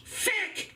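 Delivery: fuck shouted high with a short vowel, like fik; Irish fuck. Retold or imitated. Angry Irish dad yelling at the TV, fuck said like fik. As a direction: bark fuck, vowel clipped toward fik. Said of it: "That's how Irish people say fuck".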